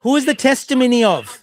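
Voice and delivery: loud, brisker "Who is the testimony of"; insistent questioning. Real, not acted. Pressing the opponent for an answer, loud and insistent. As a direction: fire off "Who is the testimony of" loudly.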